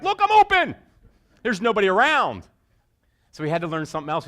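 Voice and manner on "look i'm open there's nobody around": put-on high, loud child's voice, far off on the playground; little girl calling. Eight-year-old girl calling from the playground, excited child voice. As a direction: call out like a proud little kid.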